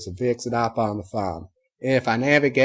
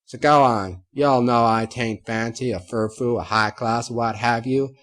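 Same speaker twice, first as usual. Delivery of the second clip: rustic ranting farmer; 3 semitones higher, 6 dB louder than usual. Acted. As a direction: belt it out, a fed-up farm girl unmasking herself. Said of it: "proceed to rant".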